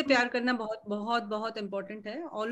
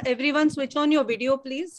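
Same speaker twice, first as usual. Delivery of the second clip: louder, calling to everyone on the call; 2 semitones higher, 6 dB louder than usual. Real, not acted. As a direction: call out to the whole group. Calling the whole call to switch on video. (louder call to everyone on the call to switch on video)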